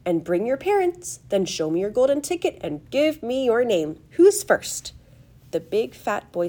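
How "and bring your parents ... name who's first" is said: high fluting host, rising at the end; high-pitched showman addressing a group; fluty calling out. A narrator's reading. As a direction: call out instructions in a high, eager voice. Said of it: "he called out".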